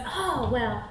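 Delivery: lightly voiced creep, drawing words out; lingering, creepy sweet talk; creepy Devon. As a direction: flirt slowly, lingering on each compliment. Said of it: "really creeping me out".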